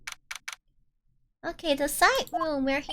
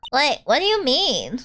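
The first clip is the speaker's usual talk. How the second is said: put-on Valley Girl accent. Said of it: "I get to use my Valley Girl accent".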